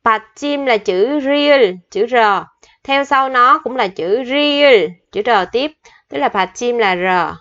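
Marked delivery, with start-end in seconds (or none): 0.0-5.7 slow dictation. Shown as a demonstration. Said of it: "nó có một quy tắc nhỏ nữa".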